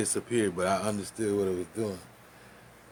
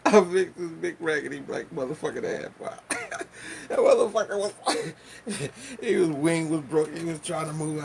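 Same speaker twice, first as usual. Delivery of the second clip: loud, higher, fired-up storytelling; worked-up retelling; 6 semitones higher, 5 dB louder than usual. Real, not acted. Comedian reliving the roach kill, worked up and loud. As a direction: let it build as you relive the kill.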